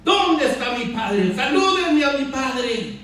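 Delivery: slow, high and loud, as if crying; tearful, pleading. Acted. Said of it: "Y está llorando y le dice".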